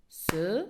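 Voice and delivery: "cerise" in three beats, ce, ri, ze; syllable by syllable. Shown as a demonstration. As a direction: sound the final e of "cerise" as its own syllable. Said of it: "se compose de". (« cerise » découpé en ce, ri, ze)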